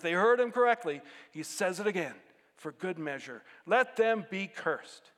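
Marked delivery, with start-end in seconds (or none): 3.6-5.1 mad curse. Retold or imitated. Preacher voicing Paul's repeated curse, slow and furious. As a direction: lean into each word of the curse. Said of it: "Oh, he is mad".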